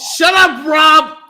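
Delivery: loud, high shout; high-pitched shouted scolding; screaming. Acted. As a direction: yell it like your own catchphrase. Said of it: "little gif I made of you screaming".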